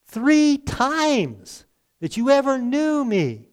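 voicing Jesus with a grave warning; solemn Jesus. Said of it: "So Jesus says again".

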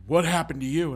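surprised manager, hammed up; manager concerned. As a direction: react to a beat-up worker. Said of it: "he's like".

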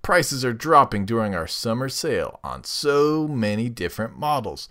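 sultry ad read. Acted. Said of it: "Use that sultry voice of yours".

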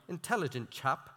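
a light, quick go at an English accent; lightly mock English accent; attempted English accent. Shown as a demonstration. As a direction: say it softly with a hint of English accent. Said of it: "could have done an English accent".

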